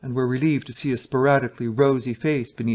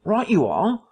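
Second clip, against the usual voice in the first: higher, hearty sailor voice; husky sailor voice; 7 semitones higher, 3 dB louder than usual. Acted. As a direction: sing out like a jolly sailor. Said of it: "in the former voice".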